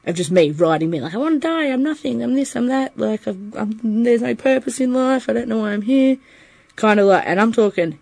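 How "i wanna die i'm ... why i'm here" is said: high-pitched, run-on despairing list; retold despair. Reciting what they wrote in hospital-bound notes, retold despair. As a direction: imitate pleading despair in a raised voice. Retells despairing words written when bipolar.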